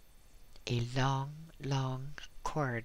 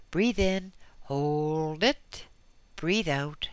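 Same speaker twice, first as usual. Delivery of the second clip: calling out; 3 semitones higher, 4 dB louder, slower than usual. Acted. Technician calling from behind screen.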